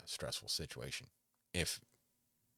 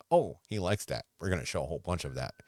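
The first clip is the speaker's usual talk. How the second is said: mock eager algorithm; 3 semitones higher, 9 dB louder than usual. Voicing the algorithm.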